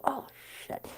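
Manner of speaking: breathy high whisper of mock dismay; whispered oh shit. Retold reaction of dismay.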